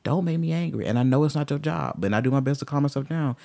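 warning threat. Retold or imitated. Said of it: "I try my best to be like".

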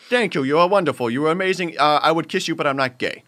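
imitated grateful customer in New York accent; effusive praise with a put-on New York accent. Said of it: "but I'm just using that".

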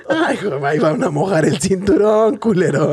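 mom's comeback. Retold or imitated. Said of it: "mi mamá sí viene encabronada".

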